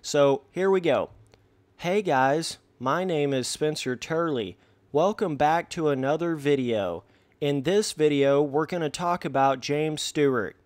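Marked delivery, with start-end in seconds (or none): 1.8-10.6 deliberately unexcited, by-the-numbers greeting; basic monotone YouTuber. Acted. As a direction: parody of a generic YouTuber intro, no excitement. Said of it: "that basic-ass monotone, no excitement in their voice".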